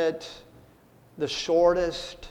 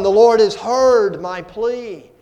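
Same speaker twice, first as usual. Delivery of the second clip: triumphant declaration; 8 dB louder than usual. Retold or imitated.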